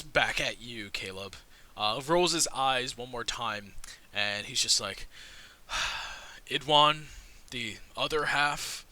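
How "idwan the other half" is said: sigh, then answer slowly with reluctance; exasperated, spacing out the words; deep weary sigh. Acted. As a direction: give up the password with a sigh. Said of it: "sighs, like, very deeply".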